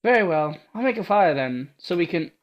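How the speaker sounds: put-on awed young heroine praising her protector; timid young girl. Ada voiced.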